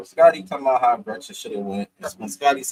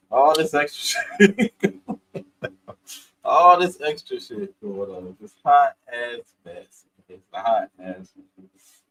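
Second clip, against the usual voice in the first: dramatic mock; 3 dB louder, slower than usual. Mocking the drama.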